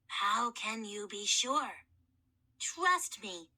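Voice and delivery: low, slow raspy mummy; hoarse mummy voice. Acted. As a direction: croak it slowly. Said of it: "a very hoarse voice".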